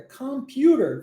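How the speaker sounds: "computer" slowly, first vowel open like "uh"; O sounded as A. Shown as a demonstration. Teacher correcting the word for students, slow open first vowel in "computer". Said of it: "o O tem som de A".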